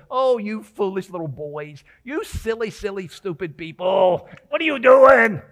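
a parody of Paul ranting at the Galatians, building to a shout; hammed-up scolding. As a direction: act out an over-the-top rant. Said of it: "I don't think Paul was saying".

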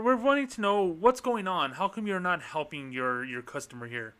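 lightly voiced TV reporter on the phone; a hint of a newsman's phone manner; news voice. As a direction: play a polite reporter calling the bank. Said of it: "I'm gonna use the news voice".

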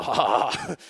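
low, smug mock laugh; self-satisfied put-on chuckle; cocky laugh. Punk pleased at being chosen, cocky low laugh. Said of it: "Just being a punk".

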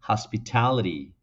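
American hospitality, flapped t; American pronunciation. Shown as a demonstration. Teacher repeating the American hospitality, flapped t. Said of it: "Así lo dirían los nativos".

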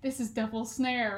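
British accent with no R in "Snare"; lightly voiced British warm-up phrase. Shown as a demonstration. Actor rehearsing her phrase to herself backstage, British accent. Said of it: "get yourself into the accent".

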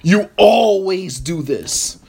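slow, accusing mock spouse. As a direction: drag out the blame like an annoyed partner. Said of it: "when you say to me".

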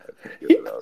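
low goofy voice, playful; deep silly voice. Pretend. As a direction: drop way down low for the tease. Third take, deep silly voice.

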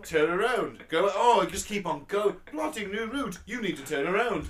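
loud, high, slow robotic navigation voice; nagging GPS announcer; sat nav voice. Pretend. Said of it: "can you imagine the annoying sat nav voice".

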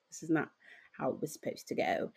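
soft, low, near-whispered apology; apologetic. Acted. Friend apologizing after an awkward reunion, hushed and sheepish. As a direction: say it under your breath, sorry. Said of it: "apologetic look. You're just like".

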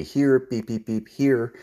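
call, beep, call; inviting recall call. Shown as a demonstration. Trainer showing the full recall, an inviting call with beeps. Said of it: "so it'd be".

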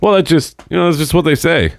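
high-pitched mock teenager, defensive; put-on high kid voice; mimicking kid's excuse. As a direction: imitate a kid squeakily justifying himself.

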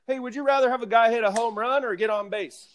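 high-pitched pretend caller's question; mock caller. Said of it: "which voice you were doing for you".

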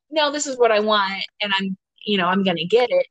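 firm, self-willed insisting; insistent demand. Retold or imitated. Podcast host voicing masculine energy, firm and insistent. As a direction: voice the pushy masculine drive. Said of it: "that's your feminine energy saying".

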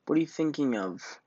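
a proud fish's shocked cry; indignant cry. Acted. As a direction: cry out, offended at the idea. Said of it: "cried Rainbow Fish".

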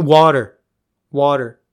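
loud, curt repeated demand; mock angry snap. Fed-up guest demanding his water, loud and curt. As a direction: bark the word at him. He snaps at the waiter.

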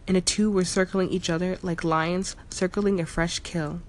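ordinary delivery

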